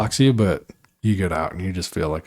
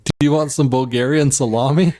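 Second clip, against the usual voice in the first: put-on higher-pitched, improvised Bulgarian butler accent; would-be Bulgarian accent; 4 semitones higher than usual. Butler offers the billionaire salami, would-be Bulgarian accent. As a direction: serve it in a makeshift Bulgarian accent. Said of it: "I'm Bulgarian".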